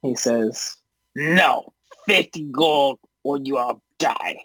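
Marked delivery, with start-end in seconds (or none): 1.2-4.4 lightly voiced goblin boss threat; a hint of a menacing goblin; threatening goblin. Goblin leader refuses the money, mildly threatening voice.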